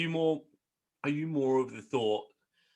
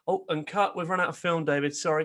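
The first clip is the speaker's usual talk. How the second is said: film crew; 4 semitones higher than usual. Acted. Acted film crew stopping the shoot.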